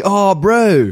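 lightly mocked New Zealand accent; put-on Kiwi accent. Guest showing what all New Zealanders say, put-on Kiwi accent. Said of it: "they all say".

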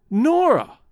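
high, loud startled cry of her name; cried out. A narrator's reading. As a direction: call her name out in shock. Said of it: "cried Lorison".

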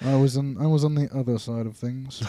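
put-on British grandpa; lightly acted British accent. Grandpa explaining his side in the war, British accent. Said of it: "You got British".

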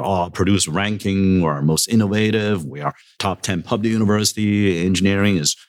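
retold proud boast, pitched a little up; mildly boastful listing; bragging. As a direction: reel off achievements, leaning on each one. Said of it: "I was bragging about".

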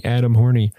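"Horny" in two syllables, ending in an ee; funny mispronunciation. Shown as a demonstration. Host relishing the wrong, funny version of a patron's name, "Horny" with an ee. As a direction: say "Horny" with the final E sounded. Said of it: "which sounds kinda funny".

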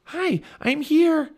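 high, loud sputter; drawn-out high call from the water. A narrator's reading. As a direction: sputter out a slow, high greeting. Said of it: "Annie sputtered".

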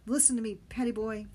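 loud commanding shout; Benny shouting the boy down. Acted. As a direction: cut him off with a bark. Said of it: "he shouted, interrupting me".

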